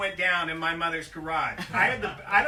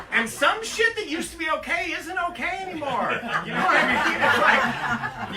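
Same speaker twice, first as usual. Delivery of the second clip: higher, louder words through laughter; laughing; 6 semitones higher, 6 dB louder than usual. Real, not acted. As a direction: push the line out while cracking up. Laughing at own joke.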